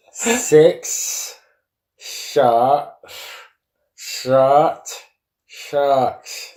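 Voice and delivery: slow mangled words, tongue held; holding tongue with fingers. Real, not acted. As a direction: say it pinching the tongue. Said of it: "I'll start again".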